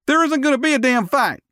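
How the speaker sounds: high, firm bartender voice; authoritative bartender. A narrator's reading. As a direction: lay down the law. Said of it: "he stated with more authority".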